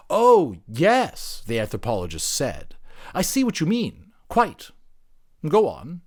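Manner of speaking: high, loud, posh-sounding "Quite"; humouring anthropologist. Acted. Anthropologist humouring the creature to keep it talking, high.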